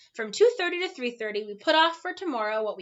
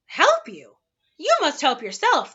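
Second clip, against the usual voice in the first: stern watchdog; 5 semitones higher, 7 dB louder than usual. A narrator's reading. Watchdog lectures Milo.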